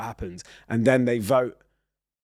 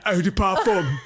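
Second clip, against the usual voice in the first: northern accent; 6 semitones higher than usual. Shown as a demonstration. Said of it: "In a northern accent".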